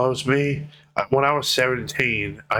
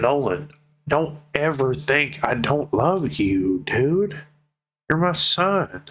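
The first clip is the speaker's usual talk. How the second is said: retelling his dad's plea, voice pitched higher; lightly voiced anxious dad begging his son; imitating pleading dad; 6 semitones higher than usual.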